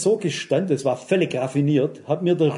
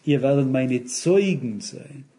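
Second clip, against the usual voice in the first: correct quote; 4 semitones lower, slower than usual. Shown as a demonstration. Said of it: "Da steht".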